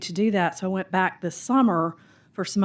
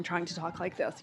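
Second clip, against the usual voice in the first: put-on code-switched non-Southern accent; 2 semitones lower, 11 dB quieter than usual. Southerner showing how they used to code-switch in DC, non-Southern accent. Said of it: "code switching that I did".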